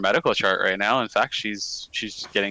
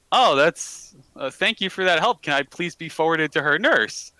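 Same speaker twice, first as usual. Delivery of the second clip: higher Southern mom on the phone; fake Southern woman; 5 semitones higher than usual. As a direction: politely put on a Southern lady's voice. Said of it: "easier to fake a Southern woman's voice".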